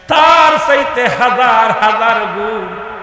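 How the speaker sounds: loud, slow sermon shout; emphatic pulpit cry; preaching cry. Acted. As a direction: cry out the size of her pain. Mother's pain cried out.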